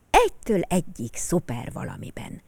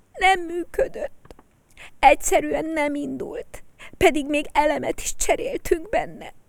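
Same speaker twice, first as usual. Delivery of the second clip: put-on higher child voice, rising near tears; upset little boy; 8 semitones higher than usual. A little boy telling his group about his broken toy, higher and upset. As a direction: tell it like a sad small boy. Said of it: "elmesélje a Mirmúr csoportnak".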